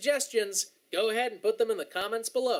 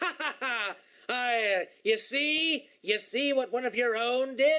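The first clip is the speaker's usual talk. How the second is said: mock, sneering, gloating laugh. Accusing the listener of looking down on black people, imitating a gloating laugh. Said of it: "looking down at all these poor".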